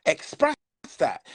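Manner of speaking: emotion catches mid-word; choked-up crack on one word; voice breaking. Real, not acted.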